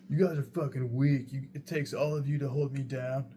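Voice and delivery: mouthing off while pinned down, played up; retold taunt. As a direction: imitate a defiant drunk jeering at his captors.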